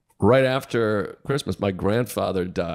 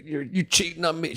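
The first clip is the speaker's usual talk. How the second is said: mock accusing girlfriend; 5 semitones higher, 4 dB quieter than usual. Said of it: "She was Italian".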